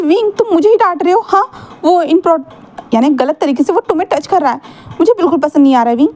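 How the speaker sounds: high, agitated whine of protest; jealous complaint. Acted. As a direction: pitch it up and hurt, speeding at the end. Jealous partner argues back.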